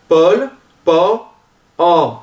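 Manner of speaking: "Paul, pa, o" slow and separate, same open vowel; open O isolated step by step. Shown as a demonstration. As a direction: peel "Paul" down to a bare "o", pitch lifted. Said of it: "si on enlève le L". (« Paul, pa, o » détachés, O ouvert)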